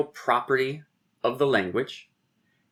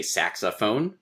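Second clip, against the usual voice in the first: "saxophone" with stress on SAX, light middle, secondary stress on PHONE; stress pattern demo; slower than usual. Shown as a demonstration. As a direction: show stressed-unstressed-stressed in "saxophone". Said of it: "stress, unstressed, stress".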